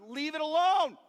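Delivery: yelling at the friend kicking the porta potty, hammed up; mock yell. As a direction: bark it out at the door like a joke.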